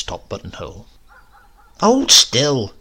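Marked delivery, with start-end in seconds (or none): 1.8-2.7 louder, a touch higher urging. A narrator's reading. Grandmother fixing his collar, louder urging. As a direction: press him firmly to keep still. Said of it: "urged my grandmother".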